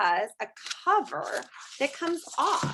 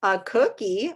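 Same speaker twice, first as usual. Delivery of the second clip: whispered reading; 4 dB louder than usual. Acted. Reading the book's text.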